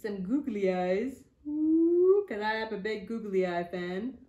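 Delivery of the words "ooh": high, bright ooh of delight. Real, not acted. Crafting googly eyes for kids, delighted high ooh. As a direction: coo over the googly eyes.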